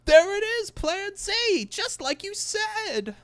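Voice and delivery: gasp, then very high, loud squeal; very high gasping cartoon voice. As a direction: exclaim it in an excited cartoon voice. Quoting a movie character.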